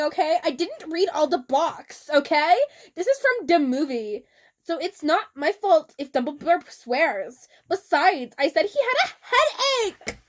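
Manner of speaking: mock the touchy fanfic writer; whiny author voice. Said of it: "Author's note".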